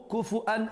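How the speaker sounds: كُفُوًا recited with two short u vowels and a glottal stop; Quranic reading variant. Shown as a demonstration. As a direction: recite كُفُوًا as "kufu'an", breaking before the last syllable. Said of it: "Trois qira'a".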